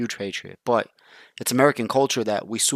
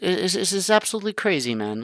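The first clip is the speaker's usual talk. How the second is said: much higher, excited it's absolutely crazy; 6 semitones higher than usual. Real, not acted. Repeats phrase, first raised.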